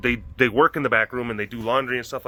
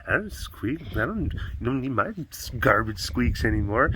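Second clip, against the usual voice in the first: a hint of sulky dog voice, softer; voicing the dog; 5 dB quieter than usual. Owner voicing her sulking dog Cassie. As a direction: pout the words as the hurt pet. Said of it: "I'm like".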